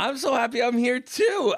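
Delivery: mock Aussie voice. Echoes the host in his silly voice.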